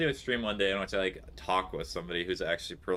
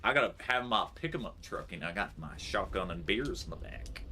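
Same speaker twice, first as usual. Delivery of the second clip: a hammed-up American redneck accent; mock American accent; 4 dB quieter than usual. Playing up a redneck American for chat, mock American accent. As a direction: brag about the truck in a thick mock American accent. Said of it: "Maybe a little less American".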